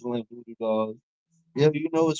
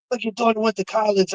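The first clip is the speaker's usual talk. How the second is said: higher, whiny mock of a jealous rapper; mocking hater voice; 9 semitones higher, 3 dB louder than usual. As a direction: sneer it like a petty hater.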